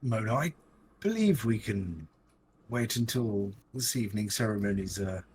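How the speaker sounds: lightly posh, measured put-off. Acted. Player defers Nathruto's request in light posh voice. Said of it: "impersonation of a posh person".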